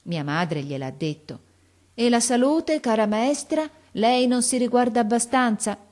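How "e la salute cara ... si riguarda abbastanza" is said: higher-pitched, solicitous questioning; concerned chiding. A narrator's reading. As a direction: fuss over a dear friend's health. Mother fusses over teacher's health.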